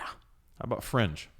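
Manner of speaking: slow hushed whisper. Real, not acted. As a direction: breathe it like a secret. Teasing list of show titles.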